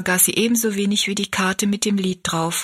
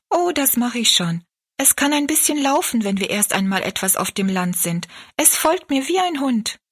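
put-on higher girl's voice, lightly reassuring; young girl; 4 semitones higher than usual. Rosalie reassures Betty Ann about carrying the kitten. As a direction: brush off the worry, girlishly confident.

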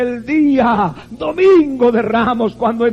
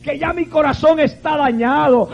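impassioned; 5 semitones higher than usual. Real, not acted. Impassioned preaching about pain.

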